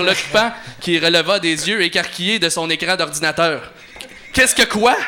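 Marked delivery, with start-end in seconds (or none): 4.3-5.0 much higher, louder yelp of shock; startled cry. Acted. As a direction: caught off guard, cry out. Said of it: "s'écria".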